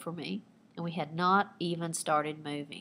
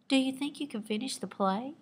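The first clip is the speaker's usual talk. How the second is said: higher, coaxing question; persuasive; 6 semitones higher, 3 dB quieter than usual. Acted. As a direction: gently coax the hurt actor to go on. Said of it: "in her most persuasive tone".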